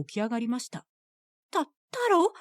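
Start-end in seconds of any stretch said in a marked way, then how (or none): 1.5-2.3 panicked stammer. Acted. Mother caught strangling her son.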